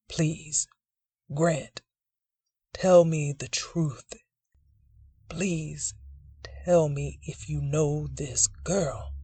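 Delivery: put-on frail, pleading old man. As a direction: beg weakly, half whispered. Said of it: "he asks frail in voice".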